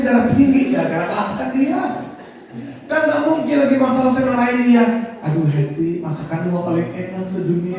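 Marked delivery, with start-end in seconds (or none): 5.2-7.8 placating praise. Retold or imitated. Husband avoids scolding his wife, soft placating praise. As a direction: flatter her quietly, not quite meaning it. Suami pura-pura memuji masakan.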